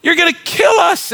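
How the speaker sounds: grumbling Israelites. Retold or imitated. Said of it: "They're looking around going".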